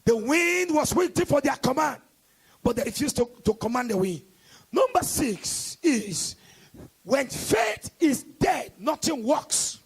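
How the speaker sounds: slow, weighty sermon points; slow emphatic preaching. Acted. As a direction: lay each point down slowly.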